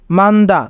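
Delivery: মান্দা said man-da, no extra consonant sounded; Korean word demo. Shown as a demonstration. Teacher showing learners the Korean pronunciation, silent consonant. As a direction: glide from n straight into d in মান্দা. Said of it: "তাই উচ্চারণ হবে".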